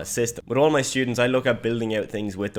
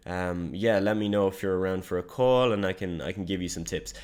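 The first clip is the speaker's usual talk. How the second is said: unconfident voice message. Shown as a demonstration. Demo of a weak cold voice message to John, hesitant and unsure. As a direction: mumble it like you're unsure of yourself. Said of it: "your voice messages sound like this".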